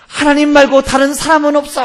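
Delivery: very high, loud comic yell; full-voiced imitation of a panicked man calling out; frantic shout. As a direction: holler desperately for anyone else. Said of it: "하고 소리를 지르더래요".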